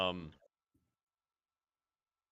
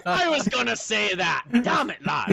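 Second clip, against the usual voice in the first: mock frustrated shout; 9 semitones higher, 3 dB louder than usual. Real, not acted.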